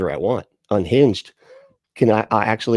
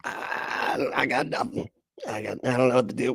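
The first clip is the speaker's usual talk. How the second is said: mock clueless quote; 6 dB quieter than usual. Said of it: "He's just like".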